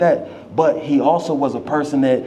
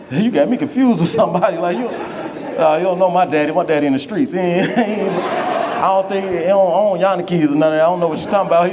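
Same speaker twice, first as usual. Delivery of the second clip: laughing disbelief; 3 semitones higher than usual. Retold or imitated. Disbelieving, laughing about his dad.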